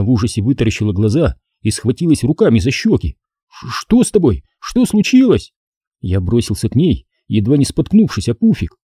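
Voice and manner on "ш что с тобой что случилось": put-on rising, alarmed boy's questions; worried boy. A narrator's reading. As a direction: rush to her, frightened. Дуан испуган за Стеф. (встревоженный мальчик)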